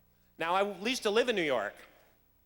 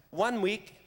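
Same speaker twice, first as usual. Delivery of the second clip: a touch of phoney French; lightly put-on French accent; fake French accent. Affected classmate answering about France, mock French accent. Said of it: "you really have a thick accent".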